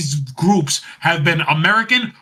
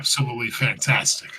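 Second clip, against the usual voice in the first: Vince McMahon impression; 4 semitones lower, 6 dB quieter than usual. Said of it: "very Vince McMahon-like".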